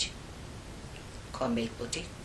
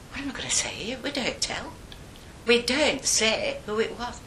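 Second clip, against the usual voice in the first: scared denial; 7 semitones higher than usual. Retold or imitated. Acts frightened girls denying all.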